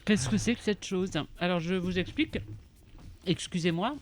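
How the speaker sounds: talking with a mouthful of chocolate; words round a bite of food; chewing while talking. Real, not acted. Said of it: "il faut jamais parler la bouche pleine".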